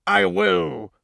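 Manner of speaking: smug bully voice; gloating bad-guy voice; villain king. A narrator's reading. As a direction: toy with the victim. Villain toys with victim.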